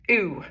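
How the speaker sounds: ooh held as one long rounded vowel; modelled sound. Shown as a demonstration. Teacher modelling the sound ooh for students, held long. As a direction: draw out ooh evenly. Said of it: "is gonna make the sound".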